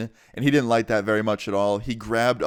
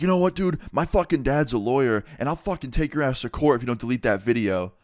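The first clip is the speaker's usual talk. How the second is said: mad retold threat; 3 semitones higher than usual. Kid threatening the storyteller with court, mock mad. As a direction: imitate an irritated threat, easing off in pitch. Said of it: "he gets real mad".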